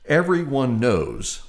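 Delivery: slow, dry sarcastic drawl. Acted. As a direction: say it with a knowing sneer. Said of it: "he said sarcastically".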